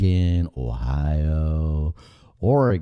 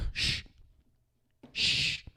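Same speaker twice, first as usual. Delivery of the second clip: soft hush; 9 dB quieter than usual. Real, not acted. Hushing himself.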